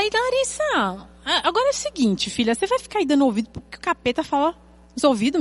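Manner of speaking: acted-out motherly reprimand; exasperated mother. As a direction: scold a child in mock exasperation. Mother scolding daughter in retold story.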